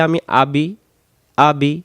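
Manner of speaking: আবি with the i clipped short; wrong short আবি; ya dropped. Shown as a demonstration. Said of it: "এই ইয়াটা দেখা যায় এটা বাদ চলে যাবে".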